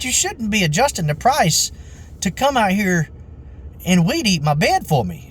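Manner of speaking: high-pitched mocking imitation of outrage; indignant customer. Retold irate customer in quarrel.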